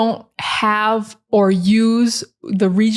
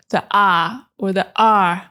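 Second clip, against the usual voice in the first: British R drop. Shown as a demonstration. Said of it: "they started to do the".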